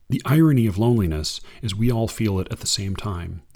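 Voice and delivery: unhurried reading of verse; poem reading. Acted. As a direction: read it like a poem to an audience. Reads a Kaur poem.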